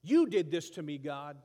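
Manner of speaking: loud accusing outburst; mock angry accusation. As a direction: blame God to his face. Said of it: "Now he's angry".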